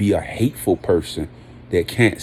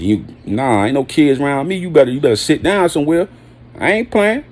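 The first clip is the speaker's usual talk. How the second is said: stern parent; 5 semitones higher than usual. Acted.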